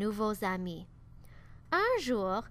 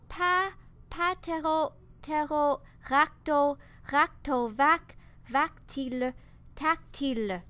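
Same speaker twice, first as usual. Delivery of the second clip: loud, high stammering over broken syllables; crié encore plus fort; 3 semitones higher, 5 dB louder than usual. Acted. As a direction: shout each mangled syllable harder. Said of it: "il cria son nom encore plus fort". (bégaiement crié, aigu et fort)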